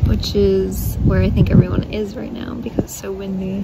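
shouting over wind. Real, not acted. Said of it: "Hope you can hear me over the wind".

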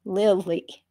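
Lily drawn out syllable by syllable; each syllable slowly. Acted. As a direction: stretch out Lily, slow and deliberate. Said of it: "pronouncing each syllable very slowly".

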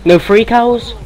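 excited. Real, not acted. Excited at cows.

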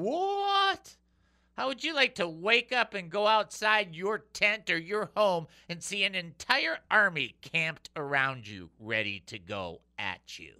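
high startled cry, then rushed worry; frightened servant shouting in alarm; panicked servant. Acted. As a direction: play the servant freaking out.

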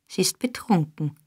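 unvoiced whispered thought; hushed private suspicion; thought aloud. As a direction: whisper it under your breath. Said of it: "dachte der Jude".

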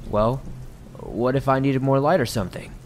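an odd guy shouting over apologetically; strange man calling out. Retold or imitated. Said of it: "until the stranger answered".

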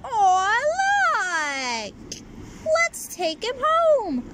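high, loud cooing; coo, then beg to keep it. Acted. Girls gush over the kitty.

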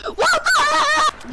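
slow, drawn-out what the heck; exasperated. Real, not acted. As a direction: drag it out in disbelief. Gamer reacting to death.

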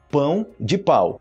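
"pão" nasal, "pau" open; pão versus pau. Shown as a demonstration. Teacher contrasts pão and pau for students. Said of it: "Do mesmo jeito".

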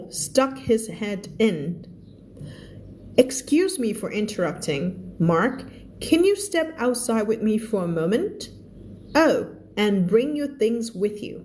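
slow, careful reading of an English story; reading aloud. Acted. Teacher reading the story aloud to the class. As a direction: read each phrase slowly for learners.

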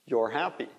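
"You're" as one syllable, like "yor"; alternative contraction. Shown as a demonstration. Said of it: "a gente fala your ou your". (contração, "You're" soando como "yor")

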